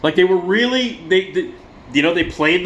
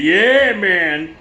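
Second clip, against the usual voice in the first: high, loud drawn-up "yeah"; cliché stage whoop; hammed-up rock frontman; 5 semitones higher, 4 dB louder than usual. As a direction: mimic a singer working the crowd. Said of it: "take the mic stand and go".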